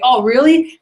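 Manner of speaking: perked-up, rising 'oh really'; excited reaction. Retold or imitated. Salesman reacting to a deal from his boss, excited. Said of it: "like, excited".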